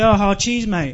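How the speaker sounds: put-on, mock sarcastic tone. Speaker explaining a phrase, acting out how someone says it, mimicking someone being sarcastic. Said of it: "someone goes sarcastically".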